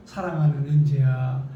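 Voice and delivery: low, tender address by name; God. Pretend. God calling a beloved believer, low and measured. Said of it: "하고 부르면".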